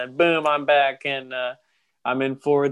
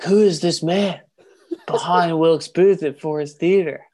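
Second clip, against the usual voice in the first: mock Benjamin Gates; 3 semitones higher, 5 dB louder than usual. Benjamin Gates voiced in story.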